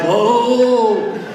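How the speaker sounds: a hint of a feeble old man threatening; mocking an old politician's empty threat; mocking Biden. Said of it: "he still is like".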